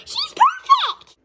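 high, drawn-out delighted squeal; thrilled. Pretend. Puppet admires the new friend, thrilled. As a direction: shout it high and stretch it out.

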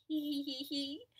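soft acted tittering; quiet hee-hee giggle. A narrator's reading. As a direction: start a small, light giggle. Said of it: "He began to giggle".

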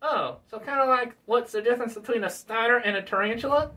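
puppet voice working it out; put-on character voice, lilting up into a question; Bill Clinton puppet. Puppet checks he follows the comparison, questioning. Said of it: "Bill Clinton".

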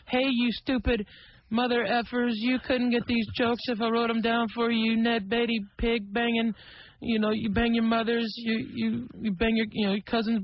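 a teenager's half-hammed rant at the audience; cussing out the crowd. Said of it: "just start cussing and screaming at the audience".

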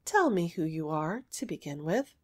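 softly spoken, mildly grave reply. Acted. Little girl tells suitor he needs permission, gravely. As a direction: lay down the condition with quiet gravity. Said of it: "she replied gravely".

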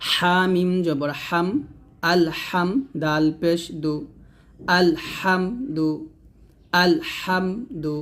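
"হা" with a pressed, emphatic h; pressed haa. Shown as a demonstration. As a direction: spell out "আল হাম দু" deliberately, pressing the "হা". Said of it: "হাটা চাপ দিয়ে বলতে হবে একটু". ("হা"-তে চাপ দিয়ে উচ্চারণ)

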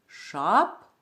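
шапка as a rising ШАП, pause, ка; first syllable of шапка stressed, then a separate ка. Shown as a demonstration. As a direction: split шапка and lift the ШАП. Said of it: "склад вимовляємо голосніше".

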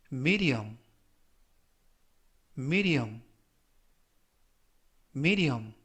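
careful dictionary-style word, spaced for repetition; slow model reading. Shown as a demonstration. Teacher reading review words for learners to repeat, slow and careful. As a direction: say each word slowly and distinctly, leaving room to echo. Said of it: "천천히 세 번씩 읽어드리고요".

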